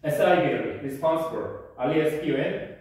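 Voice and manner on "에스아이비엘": R E S P O N dictated very slowly; slow spelling. Shown as a demonstration. Teacher spells the word for the class, slow dictation. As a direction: spell each letter with long gaps. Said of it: "responsive 하면".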